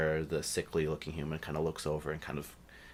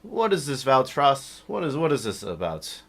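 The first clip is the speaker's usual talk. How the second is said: indignant high voice; 9 semitones higher, 10 dB louder than usual. Acted. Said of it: "And he's like".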